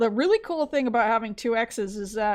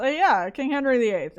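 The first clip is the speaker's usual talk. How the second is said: indignant shout; 2 semitones higher than usual. Retold or imitated. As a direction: yell it like a furious student. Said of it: "And she's just".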